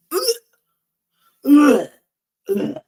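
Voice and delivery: repeated short grunts of disgust; disgusted ugh. Real, not acted. Disgusted reaction opening the recap.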